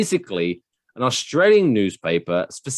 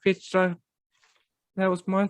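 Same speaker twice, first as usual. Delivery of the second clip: whiny petty man; 8 semitones higher, 7 dB quieter than usual. Retold or imitated. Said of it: "he was like".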